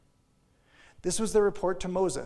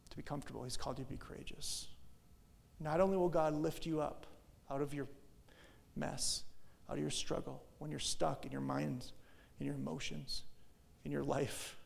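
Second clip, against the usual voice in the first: tender; 6 dB quieter than usual. Real, not acted. Pastor gently reassuring struggling listeners, soft and tender. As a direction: comfort them gently.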